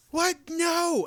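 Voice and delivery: high shocked what, no; sudden high-pitched outrage; shocked yell. Retold or imitated. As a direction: yelp it out in disbelief. Shocked at dog peeing indoors.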